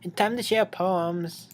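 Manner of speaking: slow, even robotic Monica; spaced, mechanical announcement. Acted. Monica retries her poem-time announcement. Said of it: "Like, seriously?".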